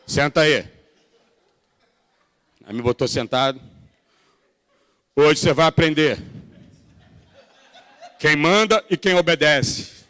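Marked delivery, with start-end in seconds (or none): 0.1-0.7 put-on stern order in a Portuguese accent; Portuguese father. Pastor's father ordering his son to sit, Portuguese accent. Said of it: "imagina aquele portuga ali". 5.1-10.1 Portuguese father. Retold or imitated. Father telling his teenage son who's boss, Portuguese accent. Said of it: "imagina aquele portuga ali".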